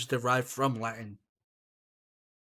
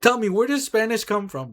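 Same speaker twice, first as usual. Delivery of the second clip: raised, indignant comeback, higher and louder; heated retort; 6 semitones higher, 7 dB louder than usual. Retold or imitated. Answering Mexicans who call her güero, raised and indignant. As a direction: throw the question back hard, like a challenge.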